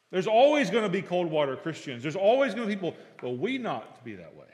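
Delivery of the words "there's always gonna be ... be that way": ordinary talk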